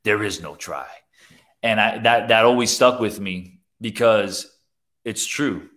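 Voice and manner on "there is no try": lightly voiced wise little master; long drawn DO, then sinking softer; Yoda. Preacher repeating the film master's saying, lightly voiced sage. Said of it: "That's my best Yoda voice".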